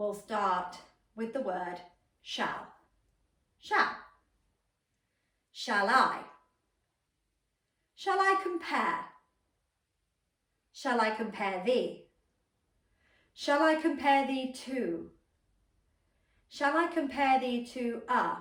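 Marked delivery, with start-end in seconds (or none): 3.6-18.4 loud, pitched-up, energized voice filling the room. Showing how to build a line word by word: loud energized voice. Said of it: "practice that louder volume and that more energized voice".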